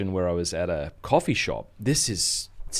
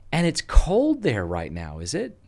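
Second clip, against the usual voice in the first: slow put-on American lady, lifting high at the end; rough attempt at an American accent; imitated American accent; 4 semitones higher, slower than usual. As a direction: mimic an American shopper asking, drawn out. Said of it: "Sorry about my accent".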